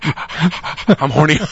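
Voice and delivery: very slow, drawn-out dog voice. Pretend. Cohost voicing the leg-humping collie, very slow. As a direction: voice the randy dog, slowly.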